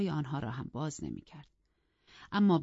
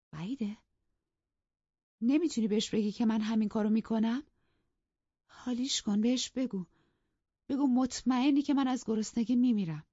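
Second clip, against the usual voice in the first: higher, louder insistent commands; frantic demanding mistress; 7 semitones higher, 4 dB louder than usual. A narrator's reading. Mistress demanding her maid tell her husband, frantic. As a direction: urge her desperately, rising.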